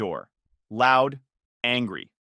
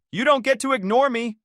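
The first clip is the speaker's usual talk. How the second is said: high, loud furious yell; 10 semitones higher, 5 dB louder than usual. A narrator's reading. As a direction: threaten him in rage. Miranda threatening with glass shard.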